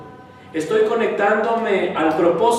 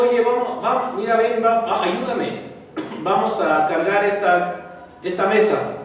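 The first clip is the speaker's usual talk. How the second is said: higher, eager coaxing to lift a table; 3 semitones higher than usual. Acted. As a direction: cheer him into helping. Coaxing an angry person to help. (tono animado para convencer)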